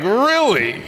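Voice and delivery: high, incredulous really; surprised. Real, not acted. Disbelief at news headline.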